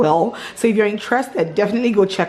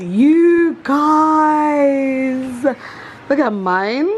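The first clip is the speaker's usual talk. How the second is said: excited cry; 6 semitones higher, 3 dB louder, much slower than usual. Real, not acted.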